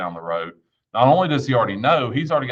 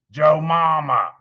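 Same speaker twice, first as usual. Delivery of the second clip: put-on high, croaky little-boy voice like Froggy from the Little Rascals; froggy kid voice; 6 semitones higher, 6 dB louder, much slower than usual. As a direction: play the little kid with a frog in his throat. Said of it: "great little froggy voice".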